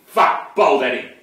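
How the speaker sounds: usual speaking voice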